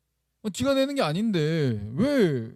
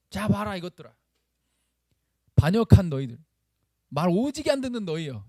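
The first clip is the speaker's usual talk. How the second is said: angry Moses; 3 semitones higher than usual. Acted. Moses facing the gathered rebels, acted angry scolding. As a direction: berate them as a fed-up leader. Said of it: "욕을 하고 싶었겠죠".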